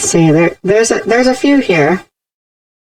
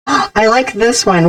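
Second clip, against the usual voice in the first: voice changer; 3 semitones higher than usual. Shown as a demonstration. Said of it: "going back and forth between voices".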